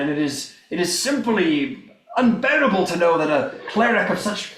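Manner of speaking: lightly voiced crusader making a grand appeal; a hint of pompous knightly recruiter; earnest crusader. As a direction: insist with measured, emphatic oratory.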